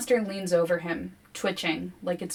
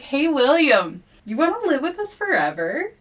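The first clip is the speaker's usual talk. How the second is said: coaxing forest; 8 semitones higher, 5 dB louder than usual. Retold or imitated. The forest luring William to stay forever, high coaxing. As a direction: lure him like a sweet spirit. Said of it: "it's like".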